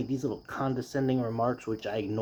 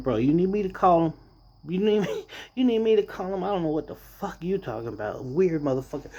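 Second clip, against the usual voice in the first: incredulous retort; 5 semitones higher than usual. Retold or imitated. His retort to the racist boss.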